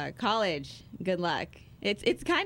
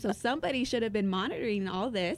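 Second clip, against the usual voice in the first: mocking whiny voice; 5 semitones higher than usual. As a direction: parody the excuse-makers. Mocking commenters' excuses.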